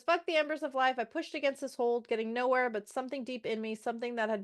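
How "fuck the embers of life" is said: "Fuck" thrown out louder and higher; defiant retort. Retold or imitated. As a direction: spit "Fuck the embers of life" in defiance. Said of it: "so she says".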